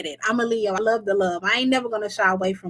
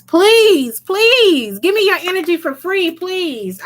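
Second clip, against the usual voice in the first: mock begging; 7 semitones higher, 4 dB louder, slower than usual. Mocking viewer begging free questions.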